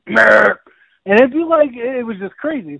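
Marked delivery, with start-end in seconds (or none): 0.1-0.5 put-on old goat bleat. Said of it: "He'd be like".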